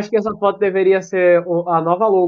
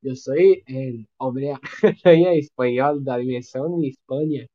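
put-on Spanish accent; 3 semitones lower than usual. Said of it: "Aí ele ficou".

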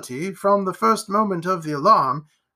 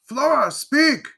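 high, slow urgent call; crying out; 8 semitones higher, 3 dB louder, slower than usual. A narrator's reading. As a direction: beg her to answer, pitch raised. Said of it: "he cried".

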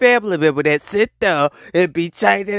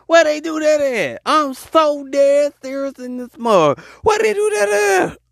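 incredulous; 9 semitones higher than usual. Real, not acted. Repeated incredulous outburst.

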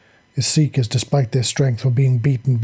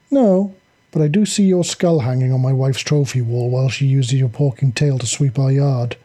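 through clenched teeth. Acted. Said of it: "Jack shot back through clenched teeth".

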